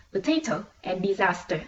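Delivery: "potato and disaster" with TA and SAS strong; second-syllable stress. Shown as a demonstration. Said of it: "the stress comes on the second one".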